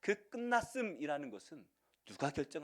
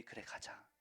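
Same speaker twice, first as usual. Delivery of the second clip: hushed reply; 13 dB quieter than usual. Acted. Jesus answers quietly in retelling.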